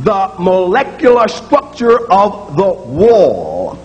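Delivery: put-on light Russian accent on the wall; a hint of a Russian physicist's accent; mild Russian accent, slow. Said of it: "A good example of that would be a Russian physicist".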